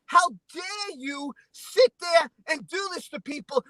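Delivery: voicing indignant accusations, emphatic; heated retold outrage, slowing toward the end; outraged commenters. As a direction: imitate angry commenters, punching each accusation. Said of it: "the comments were like this".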